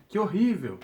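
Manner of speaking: "Que horrível!" com espanto leve, pouco mais alto; exclamação mais contida. Shown as a demonstration. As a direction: um "Que horrível!" menos enfático. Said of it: "pra deixar bem claro". ("Que horrível!" exclamado de leve)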